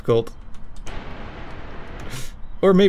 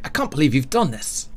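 mock British lament in a light British accent. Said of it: "Tony should have a British accent".

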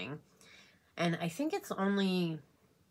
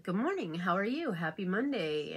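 a sing-song good morning from a colleague, lightly imitated; cheery coworker greeting; 3 semitones higher than usual. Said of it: "she was like".

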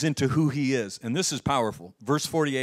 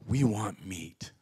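slow, low demand; grumbling people wanting more; demanding crowd; 5 semitones lower, slower than usual. Retold or imitated. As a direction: chant it slowly like a demanding crowd. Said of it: "go into this mode where they go".

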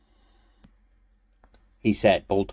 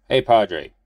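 calling out; 4 semitones higher, 7 dB louder than usual. Acted. Calling out to priest.

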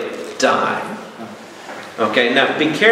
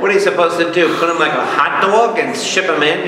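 higher-pitched, incredulous retort; retold exasperated questioning; retold incredulous protest; 5 semitones higher than usual. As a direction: protest as if the request is absurd. Retells own protest to churches.

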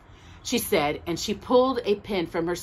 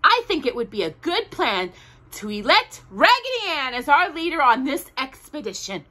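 Indian doll; 8 semitones higher, 4 dB louder than usual. A narrator's reading. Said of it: "said the Indian doll".

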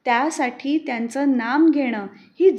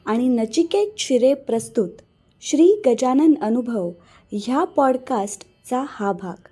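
louder, upbeat announcer read; podcast outro announcer; 2 semitones lower, 3 dB louder than usual. Acted. Host addresses listeners at the end of the episode, louder announcer read. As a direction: announce the credits and ask listeners to subscribe.

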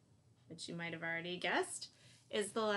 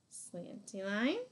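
slow demo; slower than usual. Shown as a demonstration. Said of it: "Gonna do one more of each".

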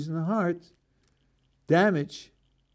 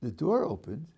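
softer and quieter, in wonder; calm, awed retelling; 4 dB quieter than usual. Acted. The rescued man seeing God's hand, quiet and awed. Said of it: "There's another way to relate to it".

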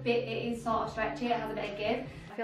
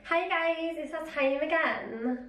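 put-on Scouse accent; 4 semitones higher, slower than usual. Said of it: "in the Scouse accent".

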